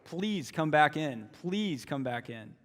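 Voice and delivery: pleading father. Acted. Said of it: "The father goes out and pleads".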